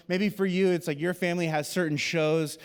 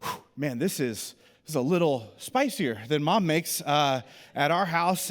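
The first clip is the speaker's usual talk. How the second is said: strained talk through burning mouth; holding back the heat while speaking; mouth on fire. Retold or imitated. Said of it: "my eyes start watering".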